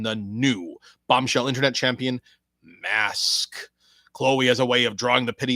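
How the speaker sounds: dramatic wrestling preview read; match preview read. Acted. Introducing Mask versus Chloe Benton, announcer style. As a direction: build up the next bout like an announcer.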